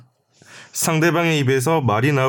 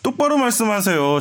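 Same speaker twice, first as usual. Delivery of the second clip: stiffly acted demand, raised pitch; stilted pressing interrogation; 6 semitones higher than usual. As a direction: push him hard, like a bad TV detective. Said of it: "김학기 기자가 추궁을 하니까".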